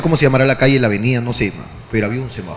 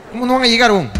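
higher, incredulous push back; exasperated retort; 5 semitones higher than usual. Retold or imitated. Arguing with his brother over the taxi, exasperated. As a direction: scoff at the excuse.

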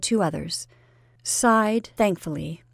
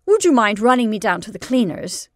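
serpent-like intensity; 3 semitones higher, 7 dB louder than usual. Acted. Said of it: "with serpent-like intensity".

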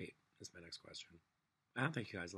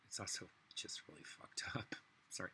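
whisper; 6 dB quieter than usual. Real, not acted. Unvoiced whispered aside.

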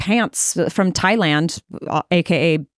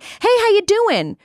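mock friendly Texan greeting; 10 semitones higher, much slower than usual.

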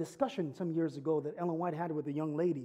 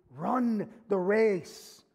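rousing exhortation; 4 semitones higher, 5 dB louder, slower than usual. Real, not acted. Rousing sermon close.

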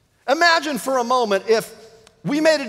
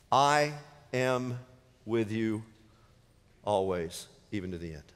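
hushed intimate quote; 10 semitones lower, 8 dB quieter than usual. Acted. Quoting Jesus in intimate hush.

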